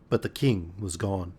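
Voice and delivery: words stretched by a yawn. Real, not acted. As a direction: talk through a yawn. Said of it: "Sorry, yawning".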